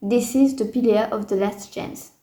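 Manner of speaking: English phrase in a thick French accent; English with a proud French accent. Shown as a demonstration. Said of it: "avec mon bel accent".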